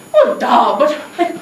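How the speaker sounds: acted Indian-accented voice; lightly teasing Indian accent. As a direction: press the question in an Indian accent. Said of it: "you sound like you're from somewhere".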